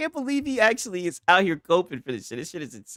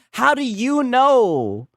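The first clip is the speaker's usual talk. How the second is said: mocking repeat; much slower than usual. Real, not acted. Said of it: "And here he goes again".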